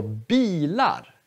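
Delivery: bilar dipping on bi, up again on lar; grave accent. Shown as a demonstration. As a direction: go down on long bi, lift lar. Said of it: "där går ljudet ner".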